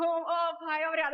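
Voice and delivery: loud, emotional cry of gratitude; shouted thanks. Retold or imitated. Niece thanking God over saved leg, shouted thanks. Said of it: "Eu queria gritar".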